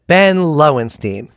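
slow, drawn-out imitated answer; retold patient's assured, unhurried reply; confident answer. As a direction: answer with mock total certainty. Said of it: "But he very confident".

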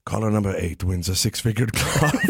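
high mock radio hype; Vizzini host. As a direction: build up the prize. Radio host teasing eels.

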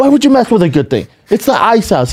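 high, fast mock outrage; indignant grumble. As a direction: protest like a grumpy old man. Retold grumpy reaction.

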